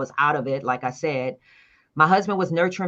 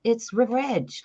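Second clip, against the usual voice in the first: retold casual offhand tone; 7 semitones higher, slower than usual. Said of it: "like that".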